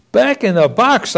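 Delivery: put-on high pitched childish wail of dismay. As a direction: cry it out, appalled for baby Jesus. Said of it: "I wailed".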